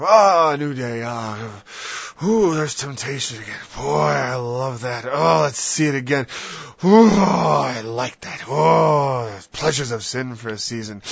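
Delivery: loud, relishing the temptation; mock eager sinner. Sinner relishing temptation, loud mock delight. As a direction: savor the temptation.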